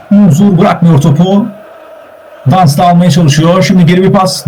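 football commentator's running call; steady, projected sports commentary; live play-by-play. Real, not acted. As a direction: call the match as it unfolds.

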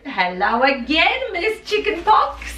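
high, slow teasing greeting; sing-song mock greeting. Real, not acted. Teasing nickname.

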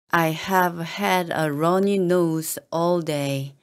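slowed-down careful reading; slow model reading. Shown as a demonstration. Teacher modelling the sentence for learners, slightly slow. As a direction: lay it out slowly for the learners. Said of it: "teacher models slow first reading".

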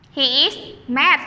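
slow, spaced model sentence for repeating; slow teacher demo of he is mad. Shown as a demonstration. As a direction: say each word slowly for the class to echo. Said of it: "Repeat after teacher".

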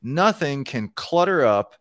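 slow, deliberate read-aloud; measured quotation from a programming book. Acted. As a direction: read the passage out slowly and deliberately. Reads book passage aloud.

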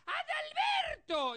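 very high, slow squeak of a name; a tiny squeaky voice on a big man; squeaky Pito voice. Retold or imitated. The man with the squeaky voice says his name, very high. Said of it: "por la voz de Pito que tenía".

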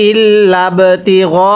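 ইল্লা ইবতিগা slowly, the ব in ইবতিগা bounced with a small push; qalqala. Shown as a demonstration. Teacher showing qalqala to students, slow recitation. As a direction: give the ব in ইবতিগা a light echoing bounce. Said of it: "ধাক্কা দিয়ে পড়ব".

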